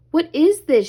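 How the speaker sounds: high, curious gasp of discovery; high wondering question; surprised. A narrator's reading. Ariel finds something in sand.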